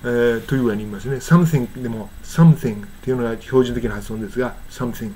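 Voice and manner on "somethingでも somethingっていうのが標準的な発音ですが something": "something" with a clear th; full "thing" ending on "something"; standard form. Shown as a demonstration. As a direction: sound both syllables, some-thing, in "something".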